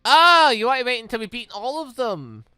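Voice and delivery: ordinary talk, nothing marked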